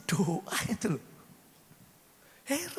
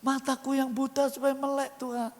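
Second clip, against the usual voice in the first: Bartimius's plea; 4 semitones higher than usual. Retold or imitated. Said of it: "Kamu minta apa?".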